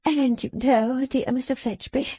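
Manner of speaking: slow, syrupy society wife flattering her guest; gushing Mrs Lammle. A narrator's reading. Wife greeting Fledgeby in the drawing room, slow and gushing. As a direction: lay the charm on thick and slow.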